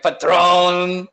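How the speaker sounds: exaggerated imitation of a Hispanic accent; teasing, hammed-up Hispanic accent; mock Hispanic accent. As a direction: mimic a friend's Hispanic accent on drink names. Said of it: "in a Hispanic accent".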